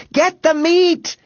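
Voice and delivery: loud, high, slow straining shout; breathless shouting. A narrator's reading. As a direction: push it out with your last breath. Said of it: "with almost all the breath he had left".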